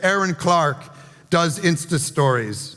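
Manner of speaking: low, slow self-deprecating punchline; self-mocking deadpan. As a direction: undersell it for the laugh. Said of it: "she's like".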